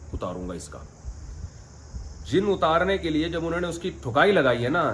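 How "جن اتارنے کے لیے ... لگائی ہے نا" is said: normal talking voice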